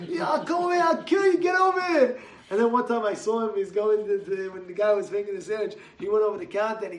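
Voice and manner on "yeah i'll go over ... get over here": much higher, loud threatening yell; imitated scream. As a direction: scream it like a lunatic on the phone.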